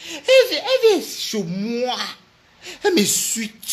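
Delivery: high, loud, cracking into laughter; outraged shout dissolving into laughs; mock outrage breaking into laughter; laughing outrage. Real, not acted. Indignant, laughing.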